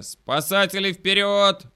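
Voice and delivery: loud, high, stretched rallying call; blurted cry. A narrator's reading. Doctor joining the rescue cry, loud blurting. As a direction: blurt out a mock-heroic battle cry. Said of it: "брякнул доктор".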